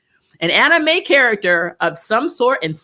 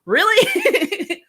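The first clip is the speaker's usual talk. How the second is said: incredulous "really"; 12 semitones higher than usual. Retold or imitated. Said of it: "I'm like".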